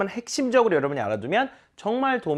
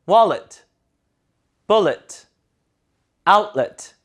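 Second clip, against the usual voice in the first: louder, stressed first syllables, falling endings; loud model reading; 2 semitones higher, 6 dB louder, much slower than usual. Shown as a demonstration. Teacher reading again for students, loud and front-stressed. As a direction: read each word out loudly, front first. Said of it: "큰 소리로".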